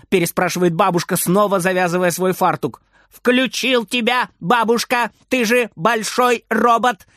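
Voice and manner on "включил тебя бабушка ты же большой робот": high, slowed gleeful call; happy shout. A narrator's reading. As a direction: shout it out proudly. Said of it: "кричит довольный Фридер". (радостный крик)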